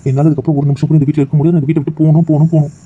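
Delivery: rising panic, I must go; desperate insistence. Acted.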